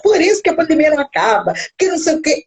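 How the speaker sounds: súplica meio rindo, voz mais aguda e chorosa; aflição fingida. Retold or imitated. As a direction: fingindo susto, entre riso e choro. Resposta assustada ao açougueiro. (cliente respondendo ao açougueiro em tom de aflição fingida e risonha)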